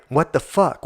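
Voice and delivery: a burst of disbelief; sharper disbelief. Real, not acted. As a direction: snap it out, shocked. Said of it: "repeated outburst".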